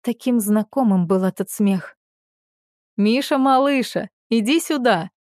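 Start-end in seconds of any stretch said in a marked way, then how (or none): 3.0-5.1 father calling. A narrator's reading. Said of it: "позвал он".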